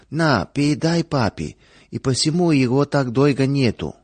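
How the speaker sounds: put-on a small girl talking to her mother; little girl voice. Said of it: "завопила и малышка".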